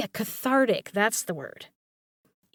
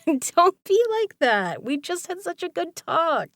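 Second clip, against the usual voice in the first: whiny plea; 8 semitones higher, 5 dB louder than usual. Acted. Pouting after listener's reaction.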